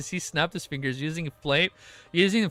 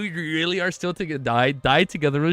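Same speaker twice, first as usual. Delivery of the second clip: ordinary delivery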